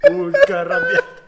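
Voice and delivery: angry Hulk shout. Pretend. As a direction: bellow it like an enraged giant. (urlo da Hulk arrabbiato)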